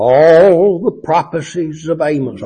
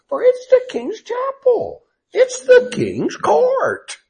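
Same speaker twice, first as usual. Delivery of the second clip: very slow scornful start rising to a much higher whine; mocking; 4 semitones higher than usual. Priest ordering Amos back to Judah, mocking and shrill. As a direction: sneer him out of Bethel. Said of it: "See, he's mocking him".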